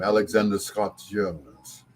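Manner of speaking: slow, drawn-out British pronunciation; British accent. Acted. Repeating grandson's British name, slow put-on British accent. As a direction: draw the name out with a British lilt. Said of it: "She gave him a British name".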